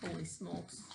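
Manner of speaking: hushed whisper over the picture; whispered aside. Real, not acted. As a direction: lean in and whisper.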